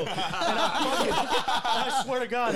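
slow words through laughter; can barely get it out for laughing; cracking up mid-story. Real, not acted. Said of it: "laughs while telling".

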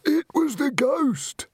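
high, drawn-out announcement; theatrical victim, high and eager; delighted melodrama. A narrator's reading. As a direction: relish having centre stage. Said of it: "delighted to have centre stage again".

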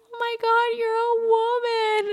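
high excited squeal, half in tears; gushing. Retold or imitated. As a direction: coo it like a thrilled big sister. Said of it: "she's like".

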